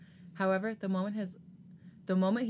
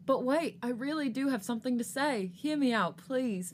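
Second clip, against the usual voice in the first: higher, pleading and urgent; begging; 6 semitones higher than usual. Acted. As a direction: plead desperately to be heard. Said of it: "Felix begged".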